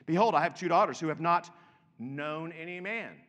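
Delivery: Lot's plea. Retold or imitated. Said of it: "he then would be having to say this".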